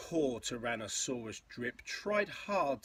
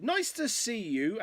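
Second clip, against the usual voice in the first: higher, sing-song greeting; mild hooting; 9 semitones higher, 5 dB louder than usual. A narrator's reading. Duckbills greet the newcomer at the river, mild hooting. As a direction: hoot a friendly hello, lightly. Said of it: "and they hooted".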